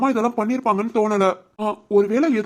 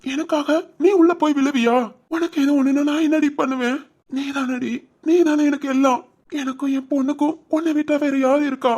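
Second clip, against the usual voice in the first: tearful pleading, higher and louder; crying; 5 semitones higher, 3 dB louder than usual. Acted. Husband weeping over his wife who risked her life. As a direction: sob it out at her, voice breaking. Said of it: "அழாத ராம்".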